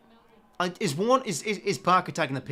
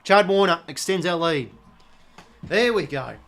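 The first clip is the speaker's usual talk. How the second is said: louder, upbeat goal call; pleased call; 3 semitones higher, 7 dB louder than usual. Real, not acted. Fan calling his team's goal, louder and pleased. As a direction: announce it with pride.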